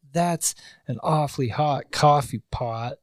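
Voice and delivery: mock street poet, drawn out; slow parody of a street poet; impression of a rapper. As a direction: recite it slowly as a bad slam poem. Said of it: "That's a rapper, by the way".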